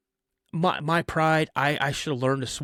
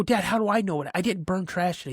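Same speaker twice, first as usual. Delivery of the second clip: retold protest; 5 semitones higher, faster than usual. Kid protests accusation to dad.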